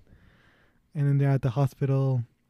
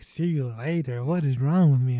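mock-awkward singsong, wavering up and down; awkward self-reproach. Man walking away after a goodbye, awkward self-reproach. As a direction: replay the goodbye, cringing at yourself. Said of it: "Then he walks away. He's like".

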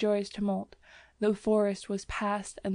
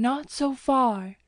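higher, louder, slow alarmed cry; anxious cry; 4 semitones higher, 5 dB louder, slower than usual. A narrator's reading. Young man crying out as she leans, alarmed. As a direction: hold her back with a cry.

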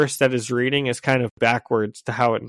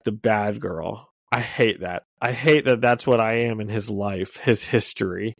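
sad; 4 semitones lower, 4 dB quieter than usual. Retold or imitated. Black Cat confiding her regret to MJ, quiet and sad. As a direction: read it quietly, a touch hurt. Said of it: "we see Black Cat get sad".

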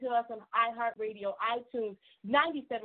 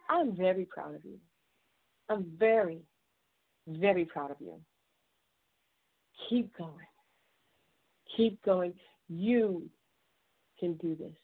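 tender, measured pep talk, lower than usual; heartfelt encouragement; 4 semitones lower than usual. Real, not acted. Host telling listeners she is proud of them, heartfelt encouragement.

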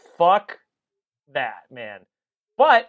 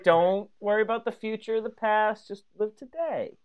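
Yoda voice; 3 semitones higher, 5 dB quieter than usual. Retold or imitated. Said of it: "as Yoda would say".

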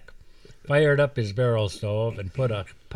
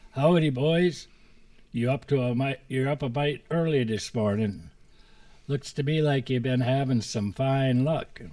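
lightly raised, drawling lawman's greeting; a hint of a sly old warden toying with boys; sly game warden; 4 semitones higher than usual. Warden greets the scared boys at dawn, sly. Warden Sneed voiced in story.

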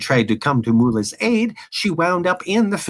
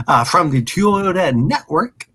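tongue-tied slip; stumbling over the name; brain freeze; 4 semitones higher, 3 dB louder than usual. Real, not acted. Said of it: "Ah, my brain".

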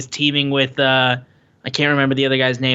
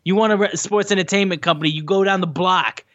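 mock Kingston rant; 5 semitones higher than usual. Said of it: "Kingston goes".

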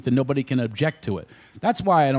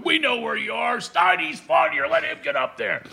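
heckling friend; 12 semitones higher than usual. Retold or imitated. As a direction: taunt him from the front row. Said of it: "heckling me".

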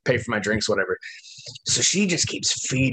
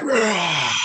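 crowd cheer; 6 semitones higher than usual. Retold or imitated. Whole plane cheering the takeoff.

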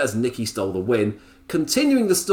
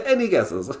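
laughing tease; 8 semitones higher than usual. Acted. Teasing repeat with laugh.

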